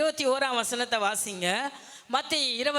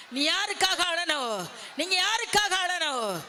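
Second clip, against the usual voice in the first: raised repeat; 4 semitones higher than usual. Real, not acted. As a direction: press the question harder on யாருக்காக. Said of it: "repeated question raised".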